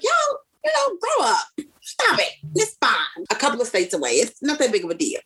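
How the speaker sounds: playful scolding that settles down; dismissive. Retold or imitated. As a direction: brush off the tearful family. Brushing off crying family.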